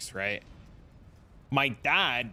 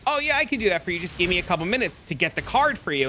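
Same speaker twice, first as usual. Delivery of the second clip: high, mock-obliging phone manner; feigned eager helpfulness; 3 semitones higher, faster than usual. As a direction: play along, all too willing to help. Plays helpful son to scammer.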